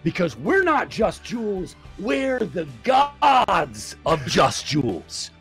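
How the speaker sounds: fired-up coach rallying the team; rousing locker-room speech; pep talk shout. Acted.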